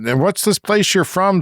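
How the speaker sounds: high, puzzled trooper question; quoting the trooper. Retold or imitated. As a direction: imitate the trooper asking, curious. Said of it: "he said".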